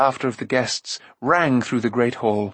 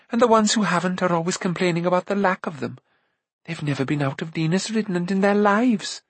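lightly voiced chatty girl, a little higher; chattering Eilonwy; 3 semitones higher than usual. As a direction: chatter on with a touch of complaint.

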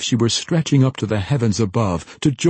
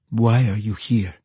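lisping voice; 2 semitones higher, 4 dB louder than usual. A narrator's reading. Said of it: "Jacka's lisping voice".

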